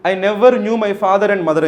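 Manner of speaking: slow, careful quoted sentence; slow reading. Shown as a demonstration. Teacher quotes option B slowly to the class. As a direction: read the line out slowly.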